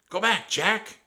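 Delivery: high, loud talking-bird voice; urgent high warning; person-like parrot. A narrator's reading. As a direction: parrot calling out almost like a person. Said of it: "She sounded like a person".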